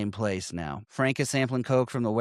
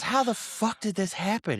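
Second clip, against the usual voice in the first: raspy dying mobster; 9 semitones higher than usual. Retold or imitated. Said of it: "And he goes".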